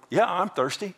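a preacher voicing her heartbroken cry; woman's inner cry. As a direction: pour out her hurt as the woman. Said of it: "in her heart she was going".

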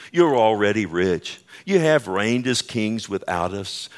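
dry mock praise; sarcastic. Paul scolding the proud church, sarcastic mock praise. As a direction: praise them so they hear the jab.

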